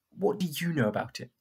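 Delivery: rough. Acted. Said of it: "I asked roughly".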